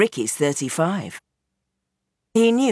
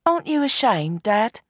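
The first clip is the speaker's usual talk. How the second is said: higher, hurt challenge; Roxy, reproachful; 5 semitones higher than usual. Acted. Daughter challenges her father, higher and reproachful. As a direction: shame him with the question.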